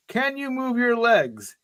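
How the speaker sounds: lightly voiced Irish rescuer, taking his time; light Irish brogue. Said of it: "he asks you in an Irish brogue".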